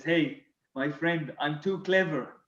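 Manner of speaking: mock French accent, sly and self-satisfied. French teammate admits his ploy on match day, smug French accent. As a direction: imitate a French teammate revealing his scheme. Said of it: "this bill with his French accent".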